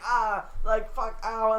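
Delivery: high, loud hammed-up cry of pain; mock pained orc. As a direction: yelp it like a stabbed cartoon orc. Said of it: "he was like".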